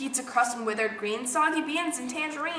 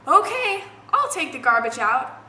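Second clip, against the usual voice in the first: giving in; 6 dB louder than usual. Acted. Sarah finally gives in.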